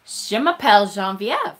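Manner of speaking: French phrase demo. Shown as a demonstration. Showing off school French to the viewers, "Je m'appelle Geneviève" in a French accent. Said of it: "I could say".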